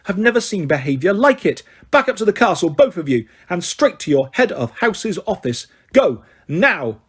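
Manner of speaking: a hint of an angry teacher giving orders; stern referee. Madam Hooch ordering the boys to the castle, stern. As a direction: send them off sharply.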